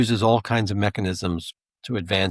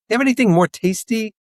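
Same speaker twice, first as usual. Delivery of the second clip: fish for a drink, voice pitched way up; parched mailman; 11 semitones higher than usual. Retold or imitated. Mailman hinting to the kid that he's thirsty, high and hammed-up.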